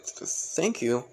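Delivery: slow, shy stammered thanks; mildly embarrassed, drawn-out gratitude; blushing. Acted. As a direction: hesitate bashfully on the first sound. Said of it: "blushes a bit".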